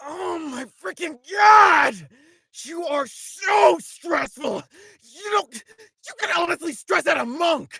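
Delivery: high, loud angry character voice. Recording a script's first line as Devlin: Devlin, absolutely pissed off. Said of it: "Devlin's absolutely pissed off at Zin's foolishness".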